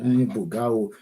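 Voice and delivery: ordinary delivery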